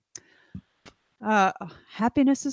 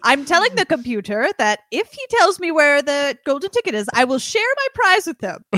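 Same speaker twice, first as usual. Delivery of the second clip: mock bargaining; 4 semitones higher, 4 dB louder than usual. Man bargains with computer.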